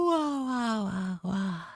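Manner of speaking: words stretched through a yawn. Real, not acted. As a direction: say it mid-yawn. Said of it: "Sorry, I yawned".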